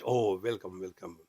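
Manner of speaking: low, softening welcome; acted gracious greeting, pitched low; mock welcome. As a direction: usher the newcomer in, voice dropping. Gatekeeper greets a soul in joke.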